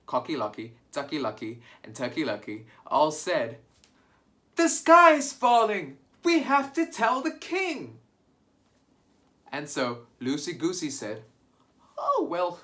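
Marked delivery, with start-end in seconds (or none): 4.5-8.0 panicked shout. Acted. Birds panicking in story. 12.0-12.6 high goose voice. Acted. Loosey Goosey asks to join.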